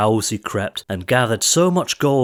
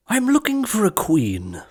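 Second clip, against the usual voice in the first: king; 10 semitones higher than usual. A narrator's reading. King's advert quote.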